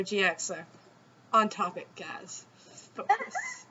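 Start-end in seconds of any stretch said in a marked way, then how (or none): 2.9-3.6 mock stern order. Jokingly scolding viewers off-topic.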